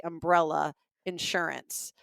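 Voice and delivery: UM-brella, IN-surance; first-syllable beat on "umbrella" and "insurance"; Southern stress. Shown as a demonstration. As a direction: lean on the front of "umbrella" and "insurance". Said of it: "there is a beat in my head".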